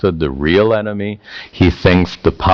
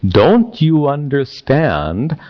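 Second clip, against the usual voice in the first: put-on slow, higher teenage challenge; typical teenager; 6 semitones higher, slower than usual. Prince questioning his father, slow teenage challenge. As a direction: draw out the question like a lightly voiced teenager. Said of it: "does that sound like typical teenager".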